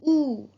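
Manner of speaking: long rounded oo, lips pushed forward; model oo sound. Shown as a demonstration. Teacher models the oo sound for the class to copy. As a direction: stretch out a clear long oo. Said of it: "pronounce with me".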